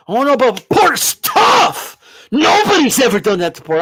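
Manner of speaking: hammed-up skeptic protest; mock doubter. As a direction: parody the worried Porter fan. Mocking doubters' objection.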